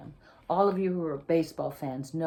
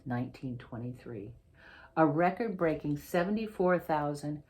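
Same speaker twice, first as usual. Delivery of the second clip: picture-book reading, lively and clear; reading to children. Acted. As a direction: read the story to a class of kids. Author reads picture book aloud.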